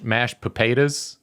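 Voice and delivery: slow, made-up Northern Tribe accent on "mashed potatoes". Shown as a demonstration. Demonstrating the tribe's way of talking, Northern Tribe accent. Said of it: "Can you demonstrate the differences between".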